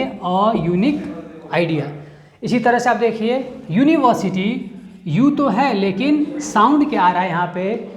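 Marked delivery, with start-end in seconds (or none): 0.0-1.9 slow model answer. Shown as a demonstration. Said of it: "तो हम क्या देंगे?".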